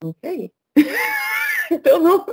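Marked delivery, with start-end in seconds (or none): 0.8-2.2 laughing. Real, not acted. Laughs at her own joke.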